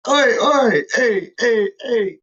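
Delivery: hyping up the chat like a presenter; mock hype call. Imitating Charlie hyping the men in the chat. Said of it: "when he's like".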